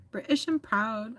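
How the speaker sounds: badly faked British accent; attempted British accent. Shown as a demonstration. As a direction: have a clumsy go at a British accent. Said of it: "I don't know how to do an accent".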